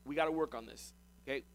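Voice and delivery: understated fatherly concern; level with a son, gently and without anger; a touch of a patient father. Acted. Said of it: "It's a father to son tone".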